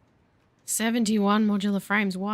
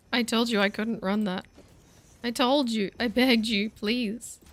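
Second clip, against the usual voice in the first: higher-pitched, put-upon plea; mock pleading; 4 semitones higher, slower than usual. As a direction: playfully voice a computer begging to be heard. PC voiced begging its owner.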